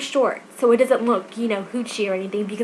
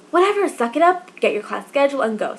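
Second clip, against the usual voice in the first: self pep talk; 4 semitones higher than usual. Retold or imitated. Alone at the meeting spot, telling herself to go, brisk pep talk. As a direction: pump yourself up to just go.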